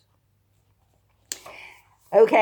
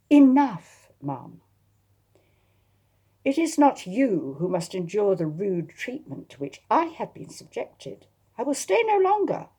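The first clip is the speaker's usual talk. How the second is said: exasperated; 4 semitones higher, 3 dB louder than usual. Acted.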